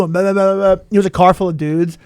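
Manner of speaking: ordinary delivery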